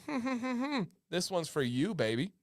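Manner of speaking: softly smug mock chuckle into a sweet line; smirking husband. Husband presents her giveaway package, softly smirking. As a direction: play it sly, with an audible smirk. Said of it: "this little smirk on your face".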